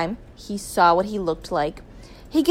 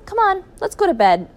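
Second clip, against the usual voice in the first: urging; 10 semitones higher, 7 dB louder than usual. A narrator's reading. Acted husband hurrying to bed.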